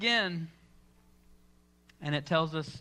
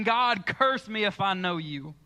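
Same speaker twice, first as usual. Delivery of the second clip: slow cursing denial. Retold or imitated. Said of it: "This same guy is now saying".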